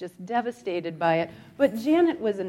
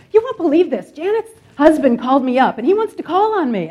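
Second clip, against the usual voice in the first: excited grandmother; 7 semitones higher, 10 dB louder than usual. Retold or imitated. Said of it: "She's like".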